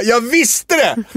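high, drawn-out cry of triumph; triumphant. Retold or imitated. Comedian retelling the stage moment to co-host, triumphant. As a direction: crow it, stretching it out high.

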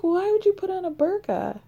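laughing. Retold or imitated. Retelling the mix-up laughing.

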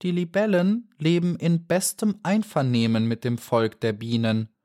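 menacing dragonfly; threatening, slow. A narrator's reading. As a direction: threaten slowly. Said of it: "sagte drohend und langsam".

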